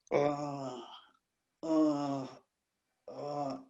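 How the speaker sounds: soft, faltering uh sounds; mock stammer. Caught without a ticket, stammering softly to the guard. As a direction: stall with a soft nervous stammer.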